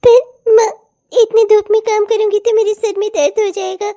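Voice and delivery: half-sobbing protest to the stepmother; a scolded girl's whiny, tearful appeal; tearful plea. Acted. Scolded girl pleading with stepmother.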